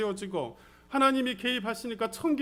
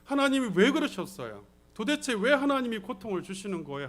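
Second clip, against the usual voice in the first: pleading challenge to the pastor, mildly acted; confronting. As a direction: question him as if demanding answers. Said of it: "따지듯이 묻더라는 거예요". (따지듯이 묻는 말투)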